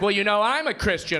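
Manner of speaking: mock white-lady voice; white woman voice. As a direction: lightly imitate an indignant churchgoing woman. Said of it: "that's a white woman voice".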